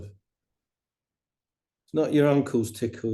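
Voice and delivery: "it's not your uncle's tickle" drawn out slowly, hitting "not"; slow, deliberate contrast; slow stress on not. Shown as a demonstration. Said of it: "Not that tickle".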